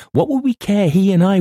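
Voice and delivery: frenzied. A narrator's reading. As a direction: climb into a frenzy on the repeat. Repeated higher in frenzy.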